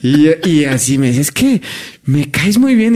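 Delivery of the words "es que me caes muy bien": high, giggling stoned friend; mock laughing through the words; a hint of a laughing Scottish friend; imitating a giggly Scot. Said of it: "y se reía".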